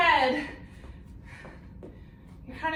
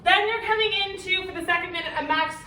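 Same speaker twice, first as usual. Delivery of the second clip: winded, talking between breaths; out of breath after the set; 2 semitones higher than usual. Real, not acted. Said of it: "See, I'm still out of breath".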